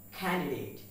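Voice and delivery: Candidate with an aspirated K; correct pronunciation. Shown as a demonstration. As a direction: say Candidate as "KHAN-di-date". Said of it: "the pronunciation is candidate".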